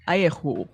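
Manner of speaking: "ayehu" said the French way, with the R scraped at the back of the throat; French throaty R. Shown as a demonstration. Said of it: "at the back of your throat".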